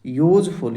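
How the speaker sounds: यूज़फुल begun with a clear yu consonant sound. Shown as a demonstration. Teacher showing students that यूज़फुल starts with a yu sound. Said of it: "यू sound का उच्चारण हो रहा है".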